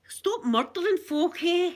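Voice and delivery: exasperated mock plea; mock scolding. Mock scolding of Scottish killers.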